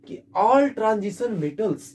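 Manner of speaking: slow, word-by-word note dictation; dictating a note to copy down. Shown as a demonstration. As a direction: spell it out slowly for students to write. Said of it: "note में आप ये point तो जरूर लिख सकते हो".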